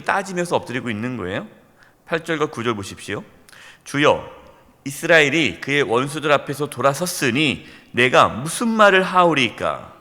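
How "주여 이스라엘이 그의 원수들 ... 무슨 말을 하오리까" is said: 1 pleading complaint. Acted. Reading Joshua's complaint aloud.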